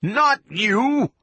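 very high, sharp cry; high-pitched alarmed cry; thought scream. A narrator's reading. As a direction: scream it in shock. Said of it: "was shocked by a Beckett thought scream".

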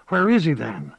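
lightly voiced old gossip; a hint of a sly old woman; old village witch. Witch Moss asks.

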